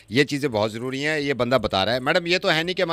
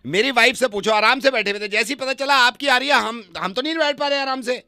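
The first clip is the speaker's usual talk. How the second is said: mock jealous outrage; 8 semitones higher, 3 dB louder than usual. Arguing with neighbour on phone.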